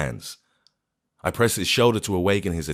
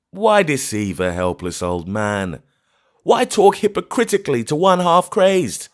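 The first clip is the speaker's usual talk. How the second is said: put-on high, louder voice of a half-crazed old man, full of scorn; hollow bitter old man; 11 semitones higher, 5 dB louder than usual. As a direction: sneer it out as a grief-mad old man. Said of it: "he replied in a hollow voice".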